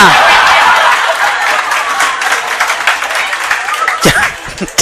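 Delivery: a long breathy real laugh at his own punchline; can't hold back the laughter; burst of laughter. Real, not acted. Teacher cracking up at his own joke, laughing.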